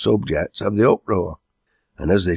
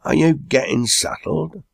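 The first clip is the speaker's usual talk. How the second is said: raised question; 10 semitones higher than usual. A narrator's reading. Chairman questions the noisy meeting.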